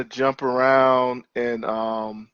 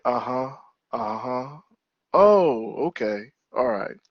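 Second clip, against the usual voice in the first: autopilot listening. Retold or imitated. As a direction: murmur along as if only half listening. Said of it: "I kinda go on autopilot".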